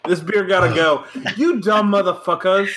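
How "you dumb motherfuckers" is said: a hint of tipsy, put-on British, pitched up; drunk British accent. Drunk friend repeating a joking insult, mock British accent. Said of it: "was that your best British accent?".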